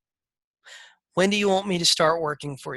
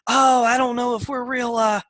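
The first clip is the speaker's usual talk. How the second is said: hesitant seller; 7 semitones higher than usual. Retold or imitated. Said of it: "And he goes".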